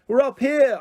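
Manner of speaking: high, loud call. A narrator's reading. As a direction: call out to someone far below. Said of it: "I called down to him".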